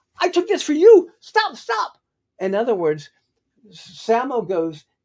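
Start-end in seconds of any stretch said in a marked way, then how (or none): 0.2-2.0 put-on, very high, very loud, angry scolding yell. Retelling the only time Jackie Chan got mad at you, imitating Jackie Chan getting mad. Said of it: "the only time he ever got mad at me".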